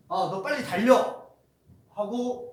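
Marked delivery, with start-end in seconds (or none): 0.1-1.3 louder, ordering someone to run; command. Shown as a demonstration. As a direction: bark the order. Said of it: "명령하는데". (크게 명령하듯)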